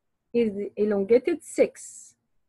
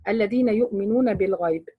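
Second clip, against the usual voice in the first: quick recited demo of الذين يؤمنون بالغيب; brisk tajweed recitation; Quran recitation; much faster than usual. Shown as a demonstration. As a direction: run الذين يؤمنون بالغيب through as a model. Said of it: "demo reading of verse".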